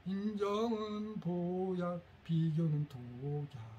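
very slow, word by word for note-taking; slow dictation. Shown as a demonstration. Lecturer slowly dictating a slogan for parents to copy down. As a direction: spell it out slowly so they can write. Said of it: "이거 적어 놓으세요".

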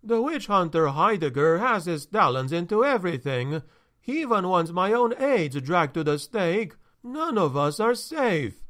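uneasy rising worry; anxious steward. Acted. Tachfel fearful complaint.

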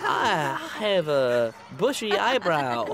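halting mock-classmate voice; Junior. Boy doing classmate for coach, halting mimicry. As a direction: lightly mimic an awkward kid, pausing oddly. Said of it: "Do a Junior".

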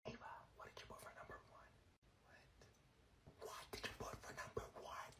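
hushed classroom whisper. Acted. Student whispering to friend across the room for answers. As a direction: whisper so the teacher can't hear.

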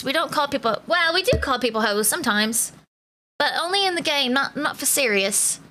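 lightly put-on English accent; British accent. Streamer jokingly warns the viewers, put-on British accent. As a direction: keep up a casual mock British accent. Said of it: "I have to talk in a British accent today".

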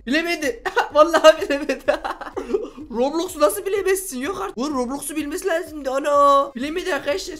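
high, laughing gloat over the win. Real, not acted. Gamer gloating to viewers, laughing high. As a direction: crow with glee that the genie lost.

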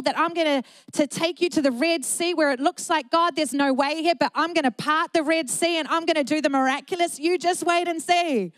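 forceful preacher speaking as God; emphatic divine declaration. Acted. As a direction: voice God's promise with rising conviction. God's declaration voiced by preacher.

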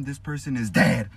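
slow down and punch person is dead; deliberate emphatic announcement; emphasis on important words. Shown as a demonstration. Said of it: "put emphasis on the important words".

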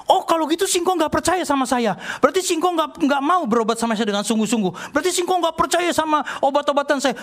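high-pitched mock-offended accusations; retold indignation. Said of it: "kok jadi marah-marah begini sama saya". (menirukan orang tersinggung dan marah, nada tinggi)

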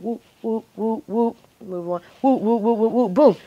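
rapid run of little whoops ending in a boom; imitated whooshing moves. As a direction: voice quick swaps as sound effects. Imitates her quick moves in the puzzle.

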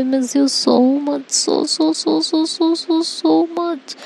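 stretched-out, high, slow lovesick plea; slow sing-song longing, pitched high; dreamy longing. Acted. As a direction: drag out every so like she is melting.

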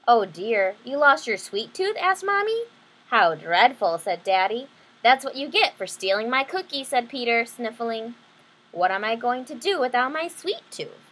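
lively picture-book read-aloud; bright storybook telling; story narration. A narrator's reading. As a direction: read it to the kids with voices.

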